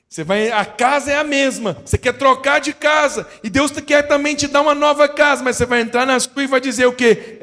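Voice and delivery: loud, high, ringing preaching; preaching at full force. Acted. Preacher urging the congregation to claim a new house, loud and soaring. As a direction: lift the church with rising fervour.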